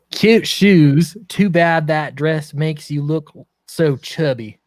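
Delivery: slow, drawn-out redneck drawl; redneck accent. Pretend. Player reading a snide card to friends, redneck accent. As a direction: draw it out in a put-on redneck accent. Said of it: "I'll try redneck".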